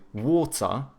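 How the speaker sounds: British water with a hard T and a schwa ending; posh British water; British accent. Shown as a demonstration. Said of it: "do a schwa instead of pronouncing the R".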